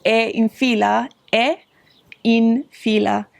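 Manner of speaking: è in fila said slowly and clearly, fila as FEE-la; slow careful Italian: è in fila; Italian demo. Shown as a demonstration. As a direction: model è in fila slowly for learners. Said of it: "most polite way to say this is".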